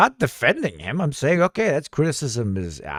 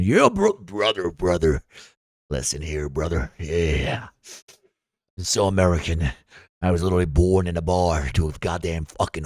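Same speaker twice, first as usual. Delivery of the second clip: low drawling redneck American, lots of "brother"; lowered mock redneck American accent; 4 semitones lower than usual. Parodying a stereotypical American.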